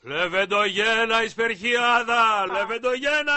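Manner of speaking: drawn-out, rising cheer; exuberant hailing. Acted. Man cheering a new acquaintance's home town, exuberant. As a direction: proudly draw out the name of the town.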